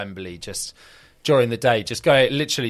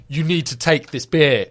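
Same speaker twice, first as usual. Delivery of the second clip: insistent fan; 4 semitones higher, 7 dB louder than usual. Retold or imitated. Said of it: "And he was like".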